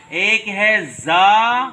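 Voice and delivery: slow, loud زال with rising end; letter name drawn out. Shown as a demonstration. Teacher spells Arabic letters for children. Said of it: "الف با کی تختی میں".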